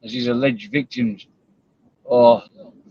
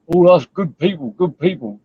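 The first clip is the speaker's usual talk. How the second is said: mock self-praise in a raised pitch; mocking quote; 4 semitones higher than usual. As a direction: lightly mimic them, a bit higher. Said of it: "sound like a bad word to say".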